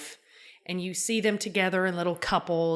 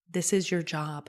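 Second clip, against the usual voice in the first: quoting Keenan; 3 semitones lower, 4 dB quieter than usual. Retold or imitated. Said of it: "Keenan's response to that was".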